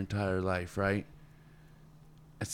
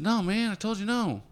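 exasperated boss; 12 semitones higher than usual. Retold or imitated. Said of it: "And he said".

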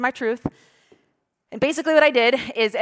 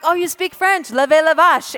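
high, eager "oh, you speak French"; bursting out with the one French line; eager greeting; 7 semitones higher, 7 dB louder than usual. Retold or imitated. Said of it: "I'm like".

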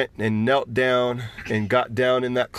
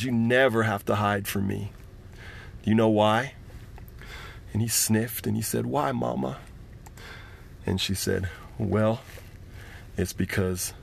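tender; 4 semitones lower, 3 dB quieter than usual. Acted. Mother comforts her son.

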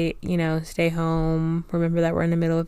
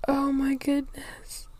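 high, teary laugh; overwhelmed, laugh and cry at once; laughing through tears; 10 semitones higher, 4 dB quieter than usual. Real, not acted. Host moved to tears, laughing while crying. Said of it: "I'm literally crying".

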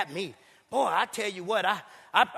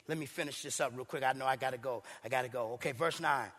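muttering to yourself about the time; quiet off-mic aside, much lower; 9 semitones lower, 10 dB quieter than usual. Real, not acted. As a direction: drop to a mumbled aside, lower and softer. Aside about running late.

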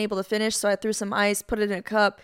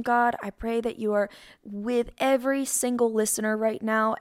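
prayer. Acted. Leads a prayer.

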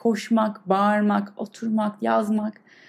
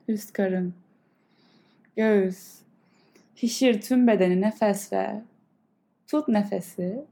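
guided meditation. Acted. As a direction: calmly guide the breath. Leads a breathing meditation. (yavaş, yumuşak meditasyon sesi)

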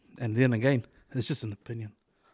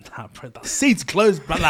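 mock barber impression; 5 semitones higher, 8 dB louder than usual. Imagining him turning customers away at the barbershop, mock impression. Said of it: "I would imagine him coming to the barbershop".

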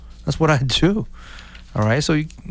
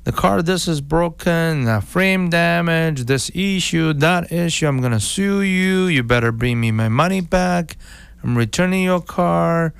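lightly voiced angry buyer, a bit higher; mock angry buyer; 6 semitones higher than usual. Buyer calling the seller to complain about a lemon car, mild mock anger. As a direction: play the buyer complaining, half-hearted. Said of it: "he calls you".

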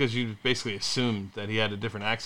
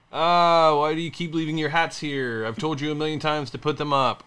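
higher, exasperated spouse imitation; mock nagging; 5 semitones higher, 3 dB louder than usual. Husband imitating wife's complaint about hats, mock nagging.

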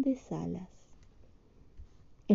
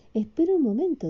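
high Winnie voice; 7 semitones higher, faster than usual. Acted. Repeated Winnie line.

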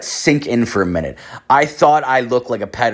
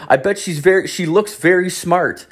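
high, overeager agreement, slowing at the end; flustered backpedaling; 9 semitones higher than usual. Retold or imitated. Passenger covering a blunder to a father, high awkward agreement. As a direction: act out an awkward save.

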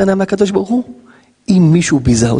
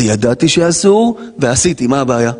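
brazen admission; 2 semitones lower than usual. Acted. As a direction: own up as if it were nothing. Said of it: "פשע".

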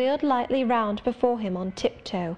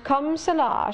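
mocking echo; 6 semitones higher than usual. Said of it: "C'est comme cela que maman faisait".

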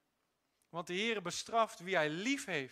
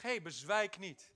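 modelled phrase; 3 semitones lower, slower than usual. Shown as a demonstration. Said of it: "Draai naar iemand om en zeg".

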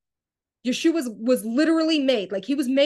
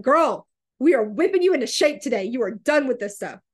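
mock scolding of herself, pitched up at first; mad at herself; 3 semitones higher, 4 dB louder than usual. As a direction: give yourself a loud talking-to. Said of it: "I was so mad at myself".

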